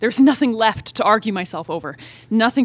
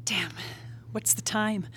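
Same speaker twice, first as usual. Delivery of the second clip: whisper; 4 semitones lower, 13 dB quieter than usual. Acted. Waking in the dark room.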